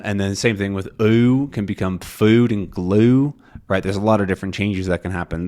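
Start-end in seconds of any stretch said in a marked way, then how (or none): 2.0-3.3 FOOD and GLUE with a glide inside the OOH; moving OOH sound. Shown as a demonstration. Teacher showing Southern ooh changes, gliding vowel. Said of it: "extra movement happening in this ooh".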